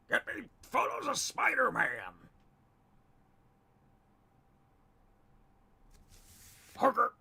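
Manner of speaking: hollering boss, high and loud; full-throated cartoon bellow, pushed way up; J. Jonah Jameson. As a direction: yell it like a furious newspaper boss. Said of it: "Jonah Jameson usually makes me cough".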